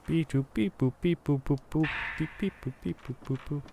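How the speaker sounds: high beeping robot noises; toy robot voice. Pretend. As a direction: beep like a little toy robot.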